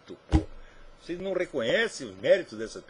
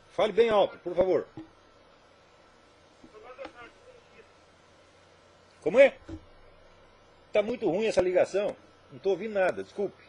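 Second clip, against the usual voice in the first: loud, raised voice on a bad phone line; to someone hard of hearing; 5 semitones higher, 5 dB louder than usual. Real, not acted. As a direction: shout so the caller hears. Ligação ruim, não ouve. (falando bem alto ao telefone)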